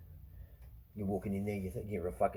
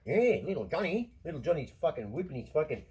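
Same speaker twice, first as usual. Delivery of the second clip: a hint of a mock teacher voice, a little higher; 5 semitones higher, 4 dB louder than usual. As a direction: sneer at what teachers say. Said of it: "the teachers are telling them".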